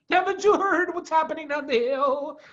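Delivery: high, urgent Badger voice; excitedly. A narrator's reading. Badger warning the foxes, excited. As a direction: blurt out the big news. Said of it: "Badger said excitedly".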